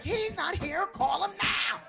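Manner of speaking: high-pitched, insistent announcer; club announcement. Retold or imitated. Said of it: "He was like".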